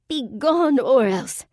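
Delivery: slow, high, loud eerie moan; ghostly moan. A narrator's reading. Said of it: "she moaned".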